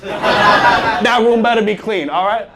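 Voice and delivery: slow, laughing dad threat. Pretend. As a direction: chuckle through the warning.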